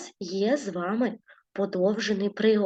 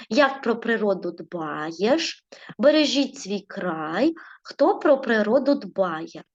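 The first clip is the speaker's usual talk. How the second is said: slow reading aloud; slower than usual. Shown as a demonstration. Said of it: "У нас є з однієї сторони початок".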